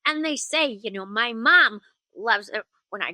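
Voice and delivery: put-on high, whispery little kid; whispering like a little kid; breathy kid whisper voice. Shown as a demonstration. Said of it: "sort of talk like this".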